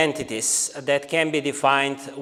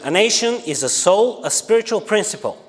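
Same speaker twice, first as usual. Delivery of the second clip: formal quote reading. Acted. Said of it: "this is how he defines a nation".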